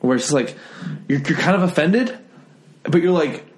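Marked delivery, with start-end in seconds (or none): 1.1-3.4 mildly mock-offended, higher-pitched; lightly put-on comic cadence with rising pitch; imitated joke-telling. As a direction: imitate a stand-up, tapering and leaving space. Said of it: "the exact same way you tell jokes".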